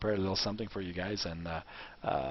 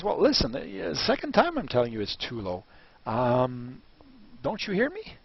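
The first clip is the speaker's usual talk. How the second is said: irritated vendor; 3 semitones higher than usual. Acted. Vendor insists a second time.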